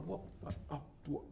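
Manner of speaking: halting, breathy stutter under threat; rattled victim playing for time; nervous stammering. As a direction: stumble over the words, cornered. Frightened victim stammers at mugger.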